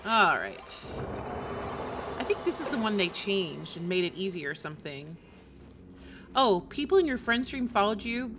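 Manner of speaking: ordinary talk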